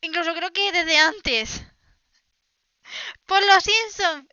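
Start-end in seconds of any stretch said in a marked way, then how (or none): 3.3-4.3 laugh-cry exasperation, slowed; cracking up in disbelief. Real, not acted. Host exasperated at Americans, laughing.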